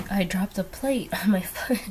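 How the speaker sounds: whispered through a giggle; laughing whisper. Real, not acted. Sheepishly telling viewers she dropped a plate, whispered with a laugh. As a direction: hush it, half laughing at yourself. Confessing a clumsy accident.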